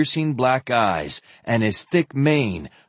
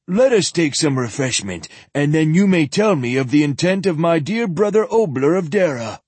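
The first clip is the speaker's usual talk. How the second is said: put-on old zealot voice; 5 semitones higher, 3 dB louder than usual.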